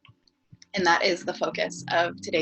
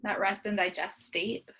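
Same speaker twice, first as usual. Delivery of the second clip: unhurried body-scan guidance with long pauses; guided meditation. Acted. Teacher leading a morning body scan, guided meditation. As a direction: guide them gently into the breath, leaving space between phrases.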